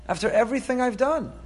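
rising exasperation. Acted. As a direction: push it up a notch in disbelief. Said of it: "he says".

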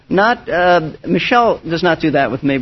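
normal talking voice

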